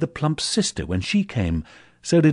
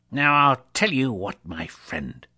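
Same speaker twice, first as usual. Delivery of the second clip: mock stern; 4 semitones higher, 4 dB louder than usual. Scrooge feigning stern anger.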